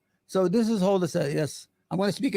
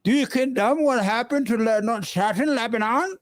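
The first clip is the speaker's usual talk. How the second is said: put-on English accent; 6 semitones higher than usual. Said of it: "English accent?".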